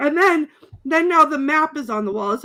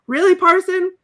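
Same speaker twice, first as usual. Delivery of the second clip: judge impression. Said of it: "the judge goes".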